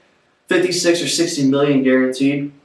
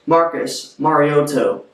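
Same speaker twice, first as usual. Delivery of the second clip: slow, formal commissioner announcement; Roger Goodell impression; slower than usual. Vlogger announcing a signing, mock Goodell voice. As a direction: draw out the name like the draft podium. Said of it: "Roger Goodell voice".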